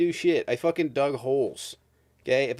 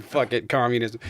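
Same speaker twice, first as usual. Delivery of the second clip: emphatic mock give-up. Repeating the joke to his co-host, emphatic and amused. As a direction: land it as the punchline this time.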